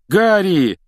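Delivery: high, loud call; shout. Acted. Mr Weasley calls out to Harry, loud shout. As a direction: shout his name across the crowd. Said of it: "крикнул мистер Уизли".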